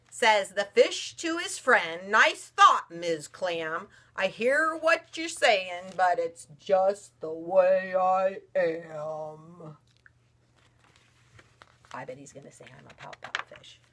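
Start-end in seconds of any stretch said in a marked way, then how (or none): 2.1-9.8 a touch of the mopey fish, slowing to a sigh; glum fish. Acted. Mother reading aloud, the fish answering the clam glumly. 11.9-13.8 hushed whisper of the refrain; whispered aside. Real, not acted. Mother whispering to daughter before the refrain. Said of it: "whispered aside to child".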